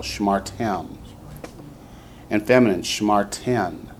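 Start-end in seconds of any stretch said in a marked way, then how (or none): 0.0-1.0 shmarTEM, weight on TEM; accent the end of Shmartem; stress on last syllable. Shown as a demonstration. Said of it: "put us onto the last syllable".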